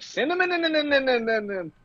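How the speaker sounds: high squeaky toy voice, each in squeezed out; be a plush toy getting squished; squeezed squishmallow. Pretend. Pretending to be a squeezed squishmallow, high squeaky voice. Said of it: "you squeeze my stomach and I'm like".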